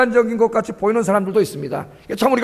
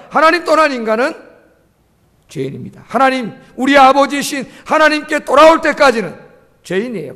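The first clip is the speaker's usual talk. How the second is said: raised, insistent sermon voice; emphatic preaching; 4 semitones higher, 4 dB louder than usual. Real, not acted. Preacher tells congregation they are sinners until return, emphatic preaching. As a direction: press the point, dropping on the verdict.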